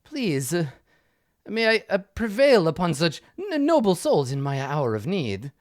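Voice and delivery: a hint of a fussy, flustered patron; quest giver voice.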